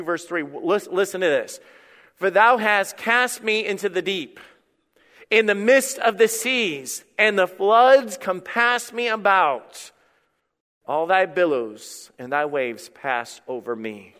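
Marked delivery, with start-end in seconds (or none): 2.1-14.1 slow, solemn Bible reading; measured reading, sinking at the close; scripture reading. Acted. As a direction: read the verse out slowly, drawing out each phrase. Reads scripture aloud to congregation.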